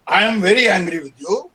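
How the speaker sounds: mock angry stress on very. Shown as a demonstration. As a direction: make the anger heard, stress very. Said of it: "the degree of anger".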